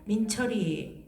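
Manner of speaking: slow, loud, drawn-out polite warning; warning mother. Acted. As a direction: stretch each word like a mother holding back anger. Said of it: "엄마가 이제 뭐라 그래요".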